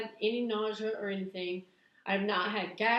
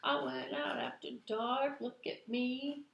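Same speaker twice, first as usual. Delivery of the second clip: high woohoo; playful boasting; mock celebration; 5 semitones higher, 4 dB quieter than usual. Cheering herself after going out alone. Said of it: "I was like".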